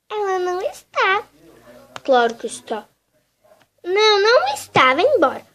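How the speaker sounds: annoyed refusal. Acted. Doll refuses the visitor.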